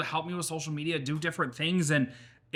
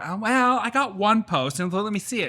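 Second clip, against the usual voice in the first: higher, louder flustered answer; sheepish excuse; 6 semitones higher, 3 dB louder than usual. Retold or imitated. Answering her husband about the posts, flustered and higher. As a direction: scramble to cover for yourself. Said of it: "I would Sunday be like".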